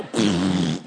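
low rumbling outburst of frustration; exasperated noise. Acted. Cut off on the freeway, exasperated noise. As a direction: let out a low, wordless grumble. Driver reacting to being cut off.

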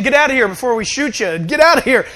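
loud acted order; guard's warning. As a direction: order an intruder away. Acts Secret Service warning him off.

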